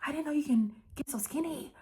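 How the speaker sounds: a rival cooing a backhanded compliment, mock surprised; fake surprise. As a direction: gush with fake shock at her old friend. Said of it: "Trina come behind her, like".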